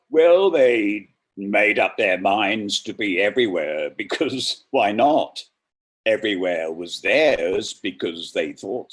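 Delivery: dramatic poetry reading; poem reading. Acted. Reader performing Merwin's The Last One with weight. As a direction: read it with rising menace and weight.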